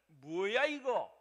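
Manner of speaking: mock confrontational challenge, swooping in pitch; acted belligerence. Preacher playing a modern passerby after a bump, mock-belligerent. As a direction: act someone picking a fight. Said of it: "막 싸우려고 덤비고".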